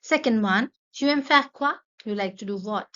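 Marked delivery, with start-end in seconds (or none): 0.9-1.7 higher and louder, "Tu aimes faire quoi?" said in one lively sweep; energetic teacher question; bright model question. Shown as a demonstration. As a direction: present it eagerly to the class. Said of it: "teacher models question then repeats".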